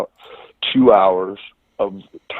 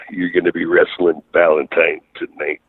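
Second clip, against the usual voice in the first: lightly voiced wrestling boss; Harley Race impression; 3 semitones lower than usual. Harley books the rookie for tonight, light Harley Race impression. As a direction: hand down the match with a hint of the veteran's voice. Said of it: "impression of Harley there".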